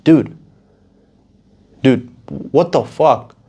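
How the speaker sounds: retold indignant shout; mock outraged yell. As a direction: call it out in disbelief. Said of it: "I was just like".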